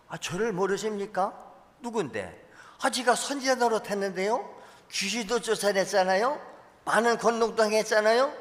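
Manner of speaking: high, indignant protest before the Lord; pleading false prophet. Pretend. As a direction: whine that you deserve to be known.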